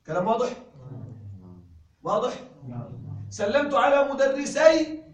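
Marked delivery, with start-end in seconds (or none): 3.3-5.0 slow, loud reading with final nun; slow emphatic example; slow model sentence. Shown as a demonstration. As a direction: read slowly, stressing مدرسين. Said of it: "عند الإضافة".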